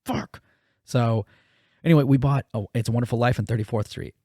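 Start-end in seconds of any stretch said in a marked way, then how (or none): 0.1-0.4 high squeaky mock despair; high-pitched cursing; frustrated swear. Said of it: "I was like".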